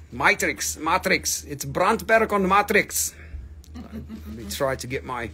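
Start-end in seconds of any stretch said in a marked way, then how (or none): 0.1-3.1 light attempt at a Boer accent; rough Afrikaner accent. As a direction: try saying it like a Boer. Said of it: "my Boer accent going on".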